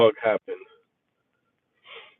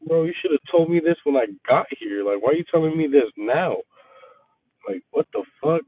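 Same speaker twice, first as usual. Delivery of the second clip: livid complaint; 3 semitones higher than usual. Retold or imitated. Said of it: "I was livid".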